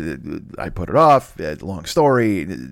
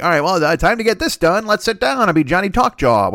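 mock pep talk; 8 semitones higher, 4 dB louder than usual. Quoting himself getting pumped.

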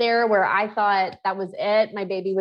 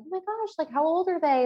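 imitating her old self; 9 semitones higher than usual. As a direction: play her past self in disbelief. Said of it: "And I was like".

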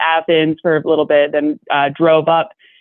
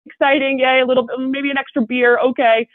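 forced cheer; 5 semitones higher than usual. Retold or imitated. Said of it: "And you're like".

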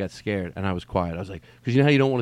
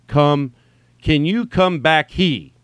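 slow, loud, puzzled read-aloud; puzzled reader; 4 semitones higher, 5 dB louder, much slower than usual. Acted. Puzzled listener reading the comedian's text at home, slow and puzzled. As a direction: sound out a text word by word. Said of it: "here's you in the house".

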